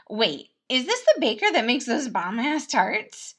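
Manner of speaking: bursting with glee; Remus, excited. Acted. Prince excited about the baker's tarts, loud.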